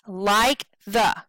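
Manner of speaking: LIKE THE short, without stress; two brief beats on "like the"; quick unstressed syllables. Shown as a demonstration. Teacher showing unstressed syllables, LIKE THE kept short. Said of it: "They're very quick".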